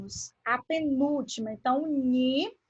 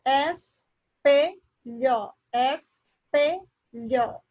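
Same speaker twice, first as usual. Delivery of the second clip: "espelho" split into es, pe, lho with gaps; very slow, each syllable of "espelho" separate; teacher sounding out "espelho" in pieces; much slower than usual. Shown as a demonstration. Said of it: "aquela sílaba que está mais forte".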